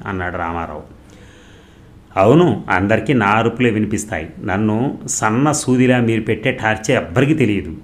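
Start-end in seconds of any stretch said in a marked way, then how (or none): 2.2-7.8 loud, aggrieved shouting; wife shouting her grievance at her husband, loud; louder yelling. Acted. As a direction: throw the accusation back, louder. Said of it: "ఇంకొంచెం బిగ్గరగా అరవటం".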